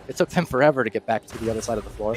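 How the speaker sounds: live game commentary; play-by-play. Acted. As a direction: call the action as it happens. Live esports play-by-play casting.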